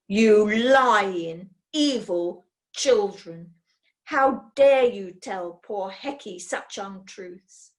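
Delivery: slow, mock-righteous outrage; hammed-up indignation at the boys; indignant accusation. Furrier denounces the boys.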